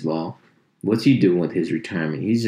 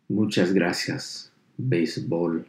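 put-on slow Spanish-accented sign-off; 3 dB quieter than usual. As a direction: read it slowly in a Spanish accent. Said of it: "say it with that beautiful accent of mine".

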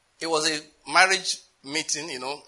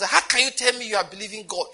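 higher, alarmed retelling of the pastor; alarmed question; 6 semitones higher than usual. Retold or imitated. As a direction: replay the pastor's alarm, pitched up. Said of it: "his own alarm was".

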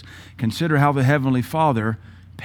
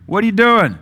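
much higher, louder call for Adam; God calling out; 9 semitones higher, 7 dB louder than usual. Retold or imitated. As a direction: call across the garden to find him.

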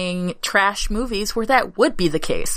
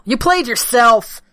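gloating villain; 4 semitones higher than usual. Pretend.

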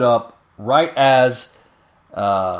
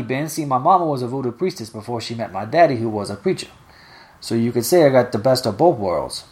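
Miss Nelly's dialect. Acted. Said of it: "this is actually how she's written in dialect".

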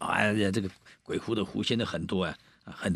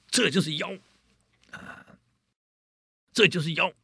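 accusing Taoist; 9 semitones higher than usual. Acted. Taoist points at the bride.

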